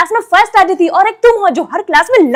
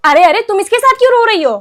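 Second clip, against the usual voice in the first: surprised teacher; 4 semitones higher, 5 dB louder than usual. Acted. Teacher surprised at crying kid.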